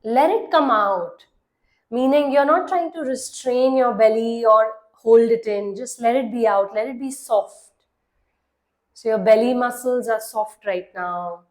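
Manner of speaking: measured meditation voice with long pauses; guided meditation. Acted. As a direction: guide the listener into relaxing, leaving long silences between phrases. (calm guided-meditation delivery)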